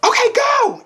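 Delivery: high-pitched mock instructor yell; sudden, excited high holler to begin; instructor's shout. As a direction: call out the start like a spin instructor. Spin instructor's start call retold.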